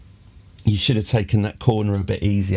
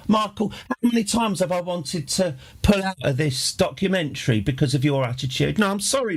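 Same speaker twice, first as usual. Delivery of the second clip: higher, mock-indignant telling-off of the director; imitating the Seven Up woman; 5 semitones higher than usual. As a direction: play a fed-up interviewee scolding Michael, pitched up. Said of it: "it's very much".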